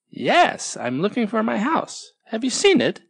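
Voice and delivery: a lost tortoise, pleading for help; Tortoise searching. Acted. Tortoise answers Snail, worried.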